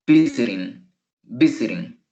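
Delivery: visiting stressed on VIS, falling after; stress on first syllable. Shown as a demonstration. Teacher has students pronounce visiting, first-syllable stress. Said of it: "la pronunciación es visiting".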